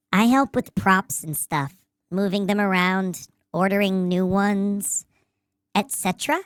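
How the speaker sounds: lightly voiced low nerd; a hint of a deep nerdy voice. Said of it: "Give us the deep nerd voice".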